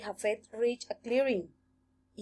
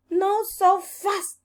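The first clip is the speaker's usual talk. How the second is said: slow, firm warning; 10 semitones higher, 5 dB louder, slower than usual. A narrator's reading. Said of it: "sighed Japhet".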